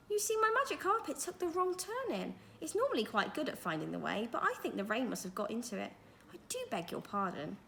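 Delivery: put-on old magician, politely sorry; lightly voiced genial old wizard. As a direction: play the kindly magician explaining. Mister Majika voiced in story.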